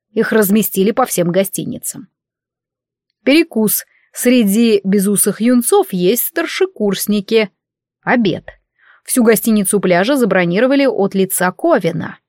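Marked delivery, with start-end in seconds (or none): none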